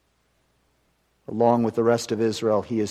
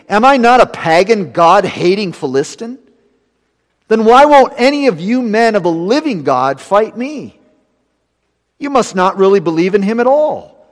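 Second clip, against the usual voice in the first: higher, louder mocking giant's taunt; Goliath taunting; 7 semitones higher, 11 dB louder than usual. Goliath taunting Israel's silent ranks, much higher and louder. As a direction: sneer it down at the cowering army.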